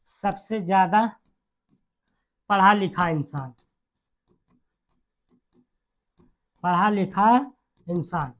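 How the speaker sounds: phrase by phrase, long pauses; dictation. Real, not acted. Teacher giving students a note, paced dictation.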